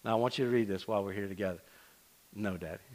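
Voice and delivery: hushed, embarrassed refusal; quiet protest. Retold or imitated. Daughter to dad at lunch over a letter, hushed plea. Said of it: "when I handed it to her".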